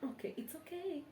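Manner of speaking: very soft, curt brush-off; pouting dismissal; dismissive okay. Real, not acted. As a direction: shut it down quietly. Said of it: "it's so dismissive".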